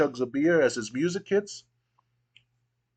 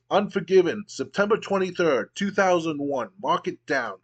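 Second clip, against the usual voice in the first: building wrestling promo, slowing on the last line; Stone Cold promo; 3 semitones higher than usual. Acted. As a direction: hype the big match like a heel on the mic. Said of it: "and then he goes".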